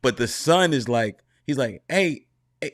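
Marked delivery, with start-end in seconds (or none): 1.9-2.7 higher, imitated Southern father calling out; Southern dad voice. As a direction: lightly mimic the Southern coach-dad greeting his son. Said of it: "his dad talked like House".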